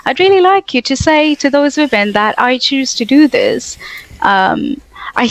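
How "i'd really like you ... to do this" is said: much higher put-on voice leaning on really; acting out an insistent challenge in a higher voice; mock demand. Imitating herself challenging the Dawah boys, higher put-on voice. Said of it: "I'm like".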